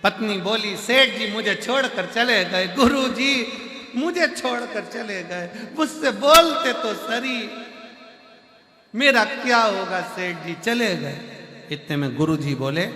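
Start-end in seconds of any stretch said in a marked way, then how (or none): 0.8-11.2 the widow performs grief to the guru; mock wailing wife. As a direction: wail for the dead husband, overdone. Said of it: "पत्नी रोई खूब चिल्ला चिल्ला कर".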